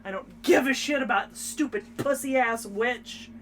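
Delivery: mock-defiant declaration with punched key words; hammed-up fighting spirit, hit it hard; feisty little fighter. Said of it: "tiny-ass little girl who's just like".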